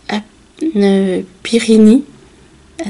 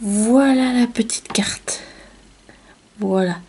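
whisper; 4 dB quieter than usual. Real, not acted. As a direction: breathe it out with reverence. Showing card to viewers, whispered.

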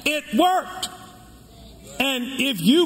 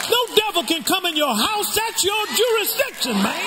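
high, ringing shout; preaching shout; 7 semitones higher than usual. Real, not acted. Pastor hammering home the point to his congregation, high ringing shout. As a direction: cry it out to the back pews.

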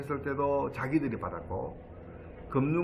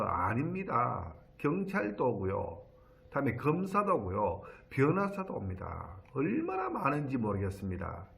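tutting sympathy, imitated. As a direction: lightly imitate an officer tutting over common victims. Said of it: "혀를 끌끌 차면서". (혀를 차듯 느리게 달래는 경찰관 흉내)

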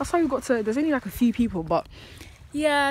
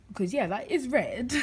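sarcastic; 3 dB quieter than usual. Acted. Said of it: "I'm being sarcastic".

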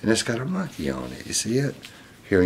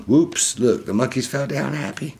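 high-pitched storybook whoops; playful surprise; 7 semitones higher than usual. Acted. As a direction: react brightly to a little tumble. Reacts to monkeys falling in book.

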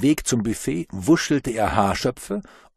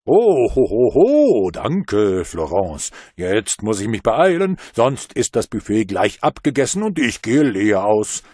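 loud booming ho ho ho; a hearty Father Christmas roar; jolly Santa; 6 dB louder than usual. A narrator's reading. Santa thanks Florence and hurries off, loud and jolly.

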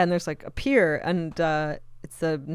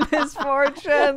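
drawn-out, high, hammed-up psychic name; hotline psychic send-up; 7 semitones higher, much slower than usual. Podcaster riffing on a fake psychic name, hammed-up hotline voice. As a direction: stretch it out like a mock TV psychic.

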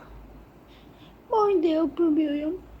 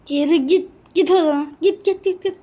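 louder, sharp commands of a cruel mother; mother's angry orders; 4 dB louder than usual. Acted. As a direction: chase her back to her room. Mother doll ordering daughter away.

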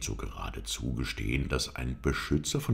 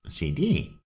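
louder, offended exclamation of address; almost angry; 4 semitones higher, 5 dB louder than usual. A narrator's reading. Halef bristles at his master's doubt, almost angry. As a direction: call out the title with a flash of offence. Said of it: "blitzten beinahe zornig auf".

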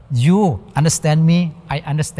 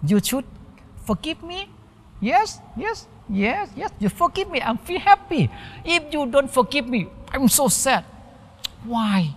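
high, soft pleading voice of someone begging to be forgiven; acting out a person asking a friend for forgiveness, high and soft; pleading wrongdoer; 8 semitones higher, 4 dB quieter than usual. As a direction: plead sweetly, voice pitched up and hushed. Acted plea for forgiveness.

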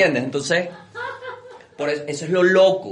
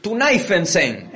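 mock German; 4 semitones higher, much slower than usual. German reacting.

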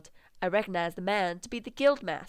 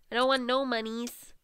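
higher, playful whine; playful raised repeat; 4 semitones higher than usual. Pretend. Player repeating herself while managing money, playful higher voice.

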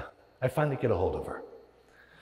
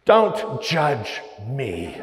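slow, laughing, louder; drawn out with a real laugh; laughing plea; 5 semitones higher, 6 dB louder, much slower than usual. Real, not acted. Joking about fast food habits.

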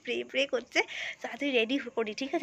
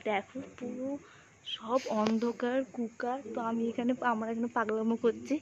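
whispering on the phone; 7 dB quieter than usual. Real, not acted. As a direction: whisper so nobody wakes. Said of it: "ওই জন্য আমি আস্তে কথা বলছি". (ফোনে ফিসফিস করে)

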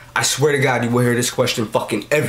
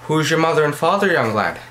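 Irish accent; 2 semitones higher than usual. Shown as a demonstration. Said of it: "if you were Irish, you'd say it like this".

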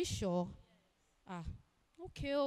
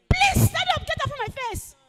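sharp command; 7 semitones higher, 8 dB louder than usual. Acted. Ordering waiter off the floor.

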